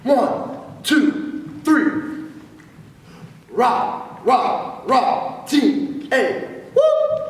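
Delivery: loud, high, clipped count and rah; yell leader shout. Shown as a demonstration. Yell leader demonstrating the fifteen for team yell, shouting. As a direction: bark the yell to the crowd. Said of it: "Now here's the yell".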